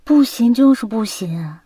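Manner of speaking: emphatic, insistent turn-down; playful firm refusal. Acted. Girlfriend refusing to help boyfriend yet again, playfully firm. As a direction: dig your heels in, punching the refusals.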